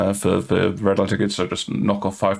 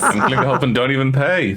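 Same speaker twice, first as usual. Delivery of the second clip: laughing; 4 semitones higher than usual. Real, not acted. Joking about the patron.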